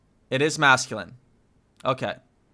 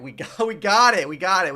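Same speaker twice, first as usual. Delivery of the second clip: laughing; 4 semitones higher, 6 dB louder, faster than usual. Real, not acted. Celebrating success.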